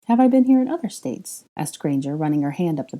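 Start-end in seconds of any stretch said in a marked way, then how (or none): 0.1-1.4 Granger's voice. A narrator's reading. Granger flirting with Draco.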